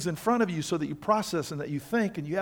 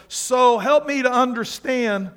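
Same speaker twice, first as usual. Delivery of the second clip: slow probing question; slower than usual. Retold or imitated. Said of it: "you go".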